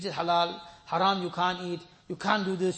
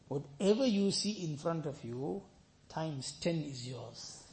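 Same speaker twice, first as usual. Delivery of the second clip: slow generous offer; 3 semitones lower, 4 dB quieter, slower than usual. Retold or imitated. Allah speaks to the man.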